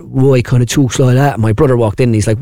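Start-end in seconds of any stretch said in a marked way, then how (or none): 0.0-1.4 slow, drawn-out football manager impression; lightly voiced, slow English manager; slow it down like the old England manager; Roy Hodgson. Shown as a demonstration. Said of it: "when I was doing Roy Hodgson".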